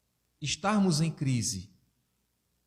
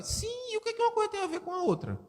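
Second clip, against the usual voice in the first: high, fast indignant comeback; indignant retort; faster than usual. Acted. Speaker retorting to a listener, high and fast. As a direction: snap back high and quick, incredulous.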